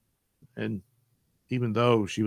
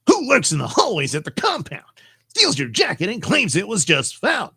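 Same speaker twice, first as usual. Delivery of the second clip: quicker, louder hammed-up Batman; 6 semitones higher, 3 dB louder than usual. Streamer redoes the riddle as Batman, hammed up. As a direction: push it like a caped crusader. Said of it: "again, Batman".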